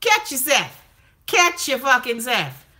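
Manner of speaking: high, laughing disbelief telling him off; mock outrage at a fake British accent; incredulous scolding. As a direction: call him out, half laughing. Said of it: "I'm like".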